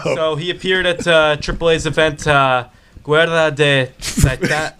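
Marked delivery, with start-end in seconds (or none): 3.0-4.7 Spanish accent. Real, not acted. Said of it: "Do it in your best Spanish accent".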